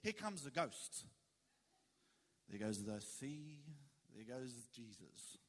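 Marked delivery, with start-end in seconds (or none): 2.5-5.4 low, slow, hushed voice; hushed storytelling. Acted. Preacher to congregation, hushed and slow. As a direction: let it drop away to a near hush.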